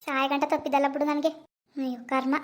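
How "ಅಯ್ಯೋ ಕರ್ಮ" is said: slow, softer fed-up groan; daughter-in-law groaning at her fate; weary sigh. Acted.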